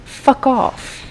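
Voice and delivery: amateur American attempt at an English accent. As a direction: put on a hammy English accent, badly. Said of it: "speaking in an English accent".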